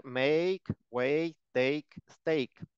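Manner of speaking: Make, wake, take, stake all said with the same "eik" ending; pronunciación: Make, wake, take, stake con la misma terminación "eik"; rhyming pronunciation. Shown as a demonstration. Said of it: "Y todos se pronuncian similar".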